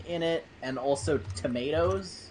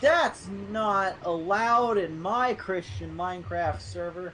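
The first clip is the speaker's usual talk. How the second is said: scolding; 7 semitones higher, slower than usual. Acted. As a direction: shriek a prudish rebuke. Mock scolding on game server.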